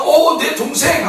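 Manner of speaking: high, slow affectionate call; a lifted, tender hello to a sibling; fond sibling greeting. Acted. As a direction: greet a little brother fondly. Siblings embracing in public.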